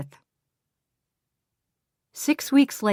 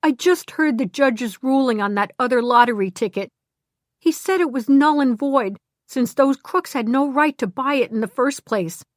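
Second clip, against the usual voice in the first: higher, eager rush of news; excited; 5 semitones higher than usual. Acted. Harvey telling Glenda the ruling, excited. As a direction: blurt out the big news. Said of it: "he cried".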